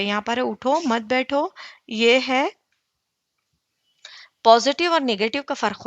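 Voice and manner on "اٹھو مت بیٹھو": اٹھو, a slight stop, then مت بیٹھو; pause after اٹھو. Shown as a demonstration. Teacher contrasts the meanings, pause after اٹھو. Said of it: "meaning بالکل change ہو گئے".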